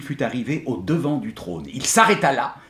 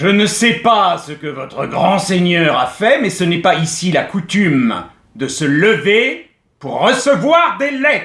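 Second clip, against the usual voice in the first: loud, raised, stepped-up kingly voice; 5 semitones higher, 5 dB louder than usual. Reading aloud the king refusing to stand for a letter: raised voice, louder than usual. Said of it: "d'un ton plus haut qu'à l'ordinaire".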